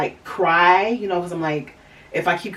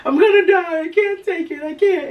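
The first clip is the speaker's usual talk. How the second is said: mock panic; 12 semitones higher, 4 dB louder than usual. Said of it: "I'm just like".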